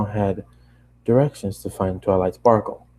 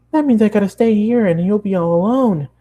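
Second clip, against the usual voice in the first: high pony voice with a touch of sadness; a hint of a sad pony; mild forlorn Pinkie; 11 semitones higher, 4 dB louder than usual. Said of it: "She looked so genuinely forlorn".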